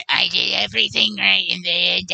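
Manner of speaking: croaky, monster-lady take on a politician; botched Trump impression. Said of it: "Let me get ready for my little impersonation".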